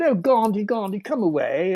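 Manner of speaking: a light sing-song call to the dog; mock call to a dog sniffing a stranger; calling the dog away. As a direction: coax the dog back, lightly voiced. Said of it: "uh, like that".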